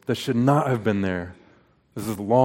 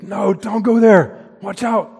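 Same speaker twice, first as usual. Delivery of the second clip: much higher, loud, slow alarmed shout; guttural instinct yell; 10 semitones higher, 8 dB louder, slower than usual. Retold or imitated. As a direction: yell in raw parental panic. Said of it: "this guttural instinct".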